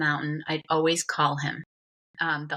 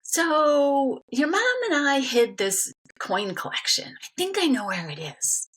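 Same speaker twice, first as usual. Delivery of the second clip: put-on drawn-out, higher voice for an elderly father; acted-out father's slow reveal; imitated dad; 8 semitones higher than usual. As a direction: announce it slowly as Dad recalling a secret. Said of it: "one Saturday afternoon, he said".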